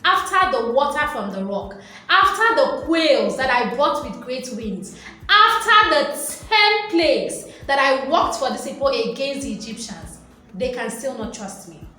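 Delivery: mock divine frustration, building to a near-sung peak; exasperated anger. God to Moses about ungrateful people, exasperated and building. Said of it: "It was a response of anger".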